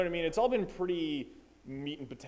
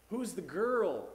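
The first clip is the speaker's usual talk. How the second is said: mom's question; 7 semitones higher, slower than usual. Retold or imitated. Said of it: "the mom was like".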